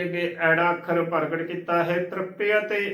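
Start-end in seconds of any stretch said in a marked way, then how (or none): 2.0-2.9 ਤ੍ਰਿਪਯ ਤੇ as "trip-pe-a-te"; ਤ੍ਰਿਪਯ ਤੇ with every vowel sounded; shown pronunciation. Shown as a demonstration. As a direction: open the half y in ਤ੍ਰਿਪਯ ਤੇ to e-a. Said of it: "ਉਚਾਰਨ ਕਰਨਾ ਹੈ".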